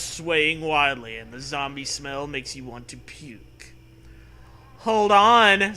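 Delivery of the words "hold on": sarcastic. A narrator's reading. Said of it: "Zoe says sarcastically".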